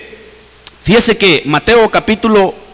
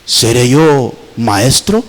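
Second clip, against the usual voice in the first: much lower, heavy question; Judas asking; 9 semitones lower, slower than usual. Retold or imitated. Preacher voicing Judas answering Jesus, low sly question. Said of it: "¿Y sabe qué preguntó?".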